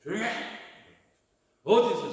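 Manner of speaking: acted-out scolding; mock scolding. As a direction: imitate a crowd telling someone off. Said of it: "꾸짖어 잠잠하라 하되 이게 뭐냐면 야단을".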